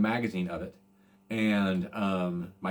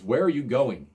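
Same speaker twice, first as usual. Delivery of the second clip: mild mock yell, a bit higher and louder; retold yell; 4 semitones higher, 5 dB louder than usual. Football star calling after the departing fan, mild mock yell. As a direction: call it out across the street, half-shouting. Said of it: "he's yelling at me".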